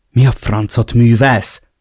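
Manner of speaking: irritated, flaring up at him; angry outburst. Acted. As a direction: snap at him in annoyance. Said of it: "hördült fel idegesen". (idegesen felhördülve)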